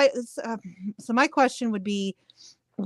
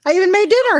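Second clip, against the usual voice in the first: laughing; 10 semitones higher, 6 dB louder, faster than usual. Real, not acted. Laughing at her own joke.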